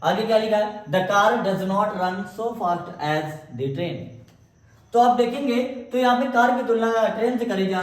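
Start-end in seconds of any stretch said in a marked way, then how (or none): 0.8-3.9 very slow, word by word, for copying; slow dictation. Shown as a demonstration. Teacher dictating the example to the class, very slowly. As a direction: spell it out so students can write it.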